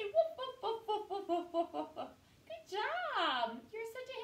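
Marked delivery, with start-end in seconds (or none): 0.0-2.1 light, laughing dog woofs; woofing happy dog for the children; playful woofs. Pretend. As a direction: bark like a happy puppy for the kids. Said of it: "wag your tail and say".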